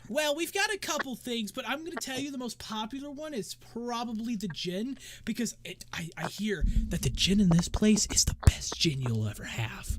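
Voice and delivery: high, lilting barmaid voice; high-voiced hostess making a sales pitch; chatty tavern dancer. Game master plays the dancer.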